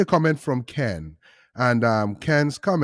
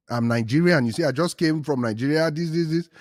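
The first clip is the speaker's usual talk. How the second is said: put-on Nigerian accent; 5 semitones higher, 4 dB louder than usual. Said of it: "I switched to my Nigerian accent".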